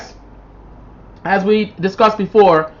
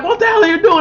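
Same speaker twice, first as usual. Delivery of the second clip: imitating angry boyfriend; 13 semitones higher, much faster than usual. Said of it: "The boyfriend's still like".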